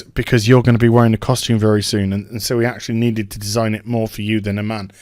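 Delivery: low, fast explanatory voice; imitated show writer. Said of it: "the writer of the show says".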